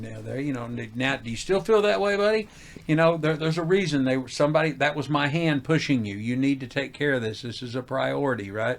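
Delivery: a hint of a stern God chiding; mildly voiced divine scolding. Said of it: "like God slapping me".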